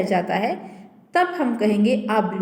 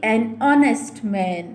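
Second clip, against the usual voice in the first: pron demo; much slower than usual. Shown as a demonstration. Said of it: "अब again यहाँ पर देखिए".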